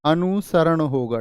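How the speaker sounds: अनुसरण said slowly and carefully; teacher slowing down on अनुसरण; slow model pronunciation. Shown as a demonstration. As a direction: spell out अनुसरण slowly for students. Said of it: "क्या होगा?".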